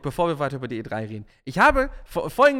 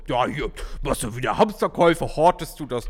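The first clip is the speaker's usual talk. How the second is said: teasing colleagues; 3 semitones lower, 4 dB louder than usual. Retold or imitated. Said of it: "Blödsinn anhören, so".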